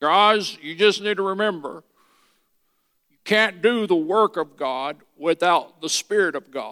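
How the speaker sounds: put-on old professor's lecturing voice. Speaker recalls what an old lecturer kept telling the class, imitating Dr. Watson. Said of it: "kind of talked like this".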